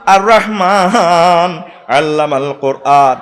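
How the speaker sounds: Quran recitation. Acted. Preacher recites the Quran verse to the crowd in slow chant. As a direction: draw each word out in a sung recitation.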